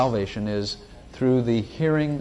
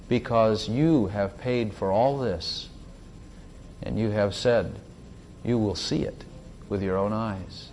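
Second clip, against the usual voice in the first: prayer. Acted. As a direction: pray it out calmly and reverently. Closing prayer.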